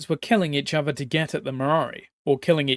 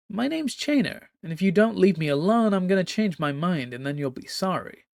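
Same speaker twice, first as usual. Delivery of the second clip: casual threat; 4 semitones higher than usual. Acted. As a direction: brush her off with a threat. Chainer threatens the empress.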